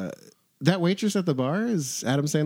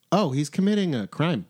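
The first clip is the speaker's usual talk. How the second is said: laughing; 3 semitones higher than usual. Real, not acted. Mock reveal while laughing.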